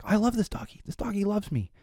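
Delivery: put-on high, soft little-kid voice; imitating young daughter. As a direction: play a small child doting on a toy. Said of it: "she's like".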